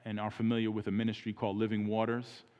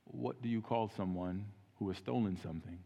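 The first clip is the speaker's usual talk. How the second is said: hushed, piercing question; 7 dB quieter than usual. Retold or imitated. Evangelist quietly pressing a stranger on stealing, hushed. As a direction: lean in and whisper the question, eyes locked on them. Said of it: "with his piercing eyes".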